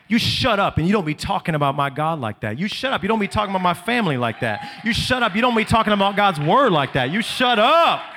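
firm scolding tell-off, rising at the end; defiant rebuke. Pretend. Preacher rebuking the devil for the congregation, loud and firm. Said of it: "and say".

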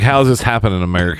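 mildly shocked, quick retold question; a touch of mock indignation. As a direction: imitate someone in quick disbelief. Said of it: "he was shocked that he was found guilty".

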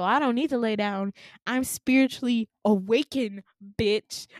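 loud, mock-indignant insistence; defiant retort. Patient refuses doctor's advice, loud mock defiance. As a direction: push back forcefully, re-enacting it.

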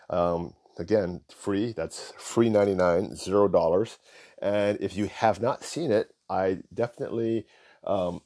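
words between sips of soda; while sipping a drink. Real, not acted. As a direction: keep talking around the drink. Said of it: "talk while I drink my soda here".

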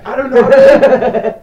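very loud, slow, high German shout. Pretend. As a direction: bellow it in mock German. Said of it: "Just shout it really loud".

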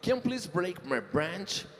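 slow, deliberate word-by-word English; slow literal English. Shown as a demonstration. Host reads a made-up English phrase slowly to a singer. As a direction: spell out each word slowly. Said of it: "traduza pra mim algumas dessas expressões".

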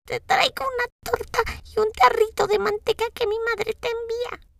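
lobo fingiendo voz aguda de niña; el lobo finge ser la nieta, alto; imitando voz de niña. A narrator's reading. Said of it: "tratando de imitar la voz de la niña". (lobo imitando a la niña)

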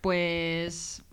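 slow, drawn-out resignation; stall, then let it out slowly; stunned Miley. Acted. Girl realising the date went wrong, stunned and slow. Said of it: "se ha quedado cuaja la Miley".

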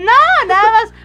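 laughing through the words. Real, not acted. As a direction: giggle it out. Laughing while telling the story.

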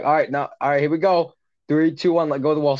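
lightly voiced swim counselor; counselor calling out. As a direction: call the swimmers off the wall. Counselor starts the countdown.

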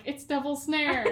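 hammed-up British warm-up phrase; British accent. Shown as a demonstration. Actor practising her accent phrase backstage, British accent. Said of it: "get yourself into the accent".

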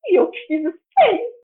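high, loud startled question; amazed discovery of her own work; sudden realization. Retold or imitated. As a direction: stop short as it dawns on you. Realizing she wrote the text.

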